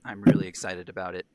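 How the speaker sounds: shaky voice from the cold; shivering while talking; trembling voice. Real, not acted. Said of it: "sorry if my voice is trembling".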